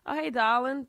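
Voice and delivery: lightly put-on New Orleans accent; mom's accent. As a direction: greet like a New Orleans mother. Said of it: "my mom's accent comes out".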